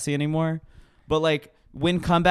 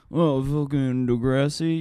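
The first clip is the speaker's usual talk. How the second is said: mocking non-fans. Mimicking people who bring up a rapper, mocking. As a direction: mimic someone tediously bringing up a show. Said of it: "when people bring up Drake and they're like".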